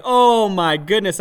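freaking out. Retold or imitated. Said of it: "I started freaking out".

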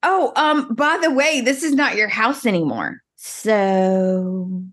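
mock breezy brush-off; dismissive send-off. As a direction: shoo him out lightly. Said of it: "I loved it when she said".

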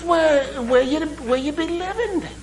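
put-on a high, Jamaican-sounding Irish accent; mock Irish brogue. Irishman in the pub asking where he lives, high mock Irish brogue. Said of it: "my Irish brogue sounds a lot like Jamaican".

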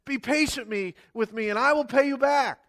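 high pleading plea; begging servant. Acted. The fellow servant begs on his knees, pleading high. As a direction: beg him for time. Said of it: "begged him".

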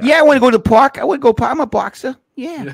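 very high, loud dopey dog; goofy dog voice. Pretend. Voicing the friend's boxer begging for the park. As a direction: yap it like an eager boxer.

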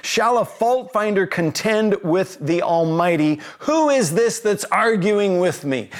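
mild indignant rant, challenging questions; lightly acted challenge, putting someone in his place; a touch of mocking outrage in each question; God. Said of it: "God going on a rant".

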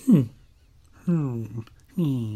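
short, soft experimental hums; trying out hums. Shown as a demonstration. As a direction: test different hums, quietly. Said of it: "I'm just trying out different sounds".

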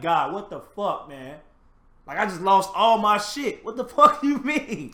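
high, loud complaint to God breaking into a laugh; upset Job. Retold or imitated. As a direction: rant at God, half laughing. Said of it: "I'm sure he had a couple moments like".

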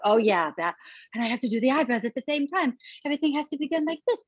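light high Marilyn voice, fast; a hint of Marilyn Monroe; breathy Marilyn voice. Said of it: "it's Marilyn".

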